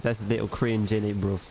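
light Cockney with a dropped t; mock London accent. Streamer teasing viewers in a light London accent. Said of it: "Speaking in accents".

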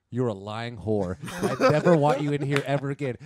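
loud, mock-furious scolding; imitated angry mother, half laughing; angry mom banishing. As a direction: lay down the ban loudly.

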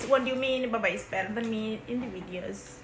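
mock British accent, lightly done; a kid faking a British accent; put-on British accent. Sister teased for her mock British accent. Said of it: "you're talking weird".

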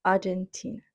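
English Аргентина, stressed on TEE; stress on TI syllable. Shown as a demonstration. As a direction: softly model Аргентина with the third syllable stressed. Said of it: "Бачимо наголос на склад Т".

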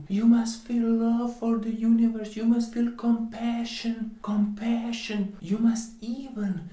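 high, loud, sing-song preachy parody; loud mock-sanctimonious preaching; mocking quote. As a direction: lampoon the schools' sermon loudly. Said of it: "even common schools will tell you".

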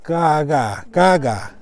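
"Gaga" said twice with a soft, unaspirated g; soft G demo. Shown as a demonstration. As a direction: model "gaga" as separate careful repeats. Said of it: "like a soft G".

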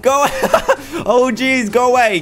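high, loud, frantic shooing; shrill frantic yelling at the mob; panicked shouting. Real, not acted. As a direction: yell them away in a panic. Shooing naked men in sauna.

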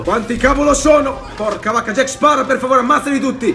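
loud, high laughing pleas; real nervous laughter while shouting. Real, not acted. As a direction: laugh through the panic. Laughs in chaotic fight.

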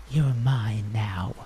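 slow, low whispered threat; vampire lover whispering to his victim; sinister whisper. Acted. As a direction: breathe it out like a predator claiming prey. Vampire's claiming line, whispered.

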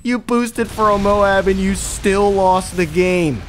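high, loud, slow taunting over laughter; mocking laughter. Gamer taunting the losing booster, mocking and laughing. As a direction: gloat at the loser, cackling. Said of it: "I'm laughing my ass off".

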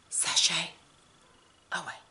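a hint of RuPaul's catchphrase; RuPaul sashay. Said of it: "like RuPaul".

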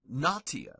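natio with T as in take; hard T. Shown as a demonstration. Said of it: "T is always hard also".

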